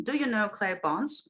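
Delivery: "Do you know Claire Barnes" lifted up at the end; rising question. Shown as a demonstration. Teacher giving an example question to trainees, rising intonation. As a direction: let "Barnes" climb as an inviting question. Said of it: "the intonation goes up".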